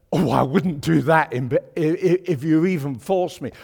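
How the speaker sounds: a hint of a prim, scandalised churchgoer. Preacher mimics a scandalised churchgoer, mild prim voice. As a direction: lightly mimic someone refusing on principle.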